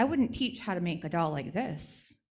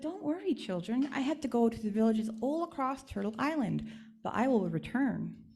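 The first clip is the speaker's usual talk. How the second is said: gently higher doll voice, comforting; reassuring doll; 5 semitones higher than usual. Acted. Doll reassuring the sad village children, gently higher. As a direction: soothe the children before leaving.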